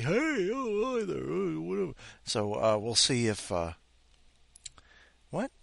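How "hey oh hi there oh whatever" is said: high, breezy put-on hello; mock casual greeting. Host imagining greeting a newcomer, high breezy voice. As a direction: toss off a fake casual greeting. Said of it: "figure out a day where it's like".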